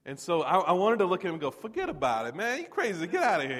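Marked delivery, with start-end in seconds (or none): 1.5-3.6 loud, mock Philly tough-guy accent; hammed-up Philadelphia street talk, louder; joking Philadelphia accent, pitched up on "You crazy". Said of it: "picking up the, uh, manner of speaking".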